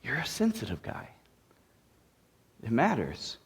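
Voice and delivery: hushed, quick delivery; quiet aside. Shown as a demonstration. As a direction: toss it off softly and fast. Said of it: "the way you're emphasizing and inflecting".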